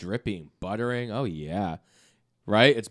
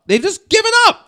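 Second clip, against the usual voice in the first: much higher squeaky repeat; 6 dB louder than usual. Acted. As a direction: squeak it out in mock.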